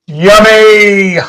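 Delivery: high, bright goofy "Yummy"; Ace Ventura. Retold or imitated. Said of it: "as Ace Ventura would say".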